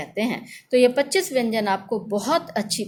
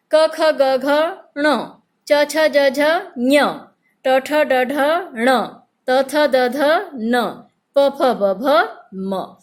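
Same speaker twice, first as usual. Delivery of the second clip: teaching recital; 3 semitones higher, 4 dB louder, much slower than usual. Shown as a demonstration. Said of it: "आप मेरे पीछे बोलकर".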